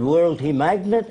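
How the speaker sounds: imitated Arab accent, puzzled question; a light Arab accent on broken English. Arab leader seeing the balloon demonstration, in an Arab accent. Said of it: "He said in his accent".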